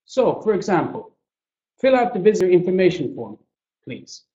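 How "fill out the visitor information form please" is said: fast, flat command with a tacked-on please; curt demand, please at the end; direct order. Shown as a demonstration. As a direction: bark it out as an order. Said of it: "Direct or polite?".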